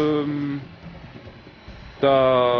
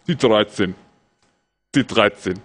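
deep, thick-mouthed Bingo caller; low mock bingo-caller voice; Bingo man imitation; 6 semitones lower than usual. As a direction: call it low as if through a mouthful of quark. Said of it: "so redet er".

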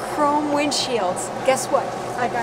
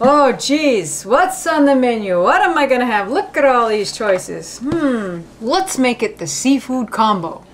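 much louder, eager chatter; excited; 7 dB louder than usual. Acted. Eyeing a menu full of choices, loud and excited. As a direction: shout the choices like a kid in a candy store.

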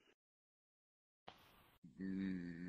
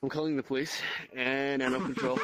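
laughing; 10 dB louder than usual. Real, not acted. Laughing in disbelief at chat.

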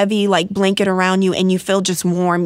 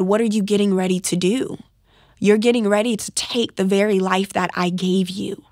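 gentle loving voice. Retold or imitated. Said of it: "in such a gentle, loving way".

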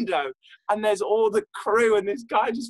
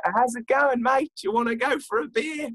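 light, raised Aussie voice; Australian accent; 6 semitones higher than usual. Acted. Penguin inviting a mate for a beer, light Australian accent. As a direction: give it a playful Australian lilt. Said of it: "I don't know why I'm Australian".

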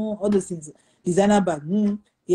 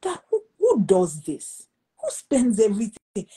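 retold frustration; 2 semitones higher, 3 dB louder than usual. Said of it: "a little bit frustrated".

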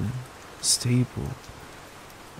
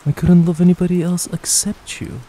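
loud, insistent vow of love; emphatic declaration; 5 semitones higher, 9 dB louder than usual. Acted. Boyfriend assuring his anxious girlfriend, loud and emphatic. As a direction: declare it louder, no doubt allowed.

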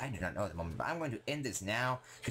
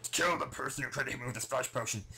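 angry Enderman; 3 semitones higher than usual. Acted. Voices the aggroed Enderman.

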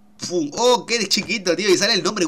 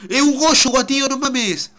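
surprised shout; 8 semitones higher, 4 dB louder, slower than usual. Real, not acted. Spotting a rare Pokémon.

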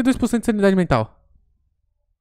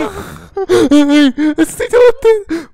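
shrieking with laughter; 8 semitones higher, 7 dB louder, much slower than usual. Real, not acted. Friend shrieks laughing at chaos.

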